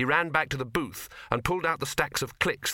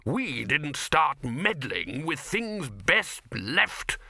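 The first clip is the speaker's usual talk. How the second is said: snarling wizard; 4 semitones higher, much slower than usual. A narrator's reading. Huffy wizard, mid-snarl.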